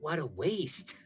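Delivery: a light, smiling shrug in the voice; smiling Etsa. Acted. Etsa smiles at the offered child, lightly amused. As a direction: say it through a smile, mildly amused. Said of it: "Etsa smiles and goes".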